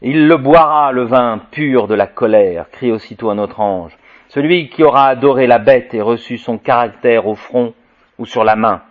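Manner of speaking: measured, ringing proclamation of prophecy; solemn scripture reading. Acted. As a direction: proclaim the apocalyptic text to the room. Reads Apocalypse aloud to audience.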